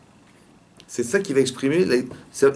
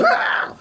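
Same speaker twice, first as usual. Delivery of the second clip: mock scream. Shown as a demonstration. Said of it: "Non, elle dit".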